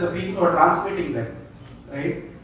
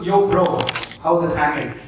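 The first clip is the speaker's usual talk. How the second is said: casual slang. Retold or imitated. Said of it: "Does not exist in Sanskrit".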